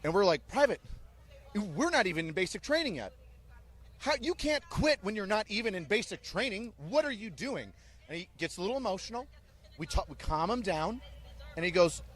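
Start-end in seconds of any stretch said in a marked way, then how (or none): 0.5-7.7 stern barked disbelief, higher; incredulous drill sergeant chewing out a recruit; drill sergeant scolding. Retold or imitated.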